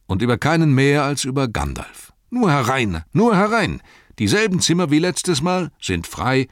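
rambling innkeeper, rushed in bursts; chatty innkeeper. Acted. Innkeeper rattling on to guests, lightly voiced chatter. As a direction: babble on without stopping.

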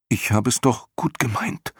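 put-on high, mildly horrified boy's voice; dismayed protest. A narrator's reading. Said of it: "flüsterte der Junge entsetzt". (entsetzt, mit hoher Jungenstimme)

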